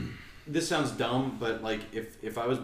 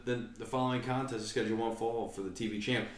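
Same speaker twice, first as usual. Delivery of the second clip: ring announcer. Retold or imitated. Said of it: "When he would say, like".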